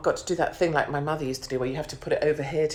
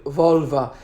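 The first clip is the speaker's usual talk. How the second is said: silly voice; 2 semitones lower, 3 dB louder than usual. Pretend. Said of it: "I need to do it in that voice".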